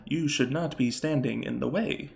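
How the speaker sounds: lightly voiced Warforged; measured warning from a construct, lightly acted; a hint of a robot warrior; Warforged figure. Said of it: "a Warforged who kinda calls out".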